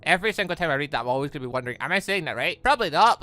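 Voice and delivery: ordinary talk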